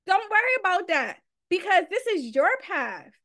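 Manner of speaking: a hint of God's patient voice; voicing God. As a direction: let God plead gently, trust me. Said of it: "all God wants is".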